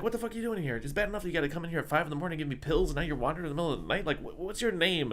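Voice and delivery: high-pitched, fast, indignant rant without much volume; retold yelling patient. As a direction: imitate a grouchy patient scolding the nurse. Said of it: "that other guy yells at her".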